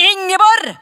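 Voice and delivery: loud, high call across the house; stretched-out calling tone; calling out a name. Retold or imitated. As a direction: call her name from another room. Someone calling her full name.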